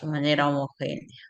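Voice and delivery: reading aloud with a pencil between the teeth; pencil in mouth. Shown as a demonstration. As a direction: read it with a pencil held in the mouth. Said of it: "ahí con el lápiz en la boca".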